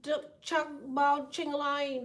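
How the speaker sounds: slow, drowsy mock foreign babble; sleepy gibberish. Drugged on melatonin, babbling fake language slowly. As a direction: mumble fake words half asleep. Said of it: "speaking in another goddamn language".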